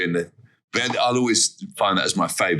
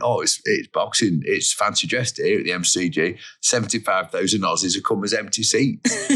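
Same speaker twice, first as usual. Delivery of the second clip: Bumble impression. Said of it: "do the impression of Bumble".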